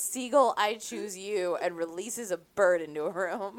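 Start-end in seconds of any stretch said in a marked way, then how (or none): 0.0-1.6 trainer's battle call. Pretend. Pokemon trainer shout parody.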